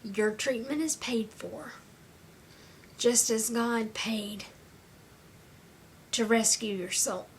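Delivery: deliberate phrases with long pauses; slow, measured quoted message. Retold or imitated. Volunteers telling a patient their treatment is paid, slow and measured. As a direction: relay it slowly, phrase by phrase. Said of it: "they tell them".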